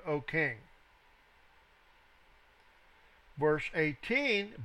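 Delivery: measured, emphatic Bible reading; scripture reading. Acted. Teacher reading the three men's answer to the king, emphatic scripture reading. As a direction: read the verse out firmly, leaning on key words.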